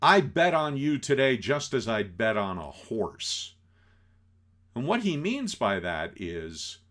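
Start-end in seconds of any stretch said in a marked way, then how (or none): 0.0-3.5 loud, confrontational call-out; loud, contemptuous threat; belligerent challenge. Acted. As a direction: shout him down like a bully. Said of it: "And says".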